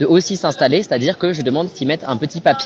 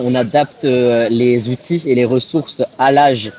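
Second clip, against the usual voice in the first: talking through hiccups; 3 semitones lower, slower than usual. Real, not acted. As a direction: speak with hiccups breaking in. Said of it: "pardon, j'ai le hoquet".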